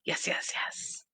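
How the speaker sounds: eager breathy whisper; whispered yes. Real, not acted. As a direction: whisper it with glee. Excited about cute outfits.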